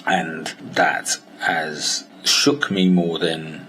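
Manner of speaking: slow, whispered grief; real grief for a lost friend, whispered; grieving. Real, not acted. Grieving his late mentor.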